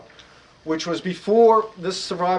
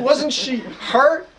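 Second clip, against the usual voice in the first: laughing disbelief; 7 semitones higher, slower than usual. Retold or imitated. Speaker incredulous at friend's story.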